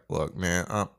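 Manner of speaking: retold sheepish apology. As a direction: act out a subdued apology to a friend. Retold apology after yelling at him.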